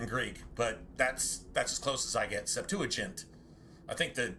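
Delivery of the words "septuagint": Septuagint with a soft G. Shown as a demonstration. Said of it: "the G is soft".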